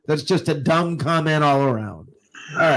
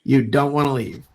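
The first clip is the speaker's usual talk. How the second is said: announcer tease; 3 dB louder, faster than usual. Acted. Announces commercial break.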